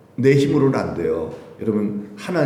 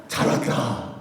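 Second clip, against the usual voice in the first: tender welcome; 5 dB quieter, slower than usual. Acted. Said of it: "그러고".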